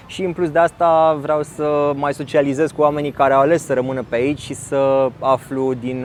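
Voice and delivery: usual speaking voice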